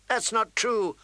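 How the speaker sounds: put-on high-pitched girl's protest; indignant child objecting; loud protest. A narrator's reading. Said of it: "Arya said loudly".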